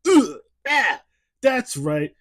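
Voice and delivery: high, loud hammed-up Italian-American accent; over-the-top Italian wiseguy voice, played for laughs; terrible Italian accent. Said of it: "my terrible Italian impersonation".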